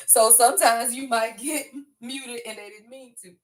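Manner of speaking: words broken by chuckles; laughing while talking. Real, not acted. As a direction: laugh through the apology. Laughing about her quick moderators.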